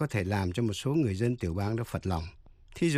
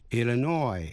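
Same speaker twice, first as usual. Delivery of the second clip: "Illinois" stressed on final NOY, s silent; last-syllable stress. Shown as a demonstration. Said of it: "Nhấn mạnh vào vần cuối". ("Illinois" nhấn vào vần cuối NOY)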